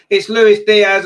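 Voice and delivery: Luis punched, loud and high, falling on Diaz; excited goal call. Real, not acted. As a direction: shout the scorer's name in real excitement. Naming the scorer live.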